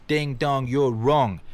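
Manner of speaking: ding-dong buzzer-style put-down; mocking retort. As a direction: taunt your foolish former self. Mock retort to his former self.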